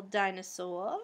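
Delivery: Boston accent on dinosaur, r dropped to dinosaw-uh. Real, not acted. Vlogger noticing her Boston accent slip out. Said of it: "It's my Boston accent coming out".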